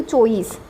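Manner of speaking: चौबीस again as "चौईस" with falling tune; local Dhundhari pronunciation. Shown as a demonstration. Teacher repeats the local form for students. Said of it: "हम चौबीस कभी बोले ही नहीं".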